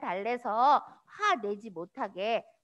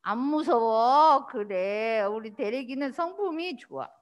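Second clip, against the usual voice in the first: slow, gentle comfort; reassuring; 4 semitones lower than usual. Real, not acted. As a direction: soothe the little ones slowly. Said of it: "reassuring children".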